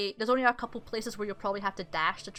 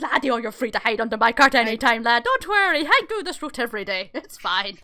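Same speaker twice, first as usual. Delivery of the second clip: put-on friendly old driver; 7 dB louder than usual. Old guy thanked with gold coin, loud friendly welcome. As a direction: welcome them heartily as the old carter.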